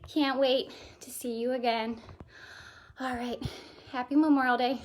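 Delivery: breathless after the workout; panting between words; out of breath. Real, not acted. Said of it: "I'm so out of breath, can you tell?".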